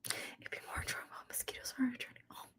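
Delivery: hushed aside whisper. Real, not acted. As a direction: say it under your breath. Unvoiced whisper.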